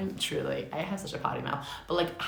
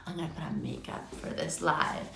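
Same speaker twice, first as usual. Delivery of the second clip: whispered thought; 6 dB quieter than usual. Retold or imitated. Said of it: "I'm like".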